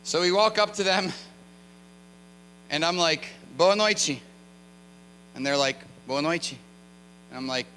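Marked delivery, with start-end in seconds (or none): 3.6-4.2 louder, higher eager Portuguese greeting. Retold or imitated. Excited visitor greeting girls on the street, eager greeting.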